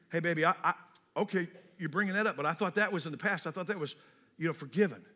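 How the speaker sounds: soft, reassuring husband to wife; gentle and soft. Shown as a demonstration. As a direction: say it gently, without snark. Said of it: "As gently as you can".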